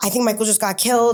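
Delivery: put-on panicked voice. Retelling telling a friend what happened: imitating own panicked words. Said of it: "I'm freaking out".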